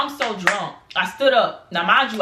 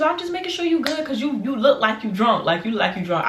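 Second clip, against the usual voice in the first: put-on girl voice; 3 semitones higher than usual. Girl checking on her.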